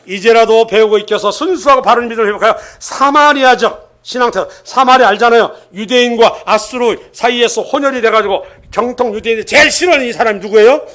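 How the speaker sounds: insistent sermon delivery; emphatic preaching. Real, not acted. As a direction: press each point home to the congregation. Preaches at full force.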